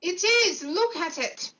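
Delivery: loud, frightened insistence; panicked shout. Acted. Panicked insistence about stone hand.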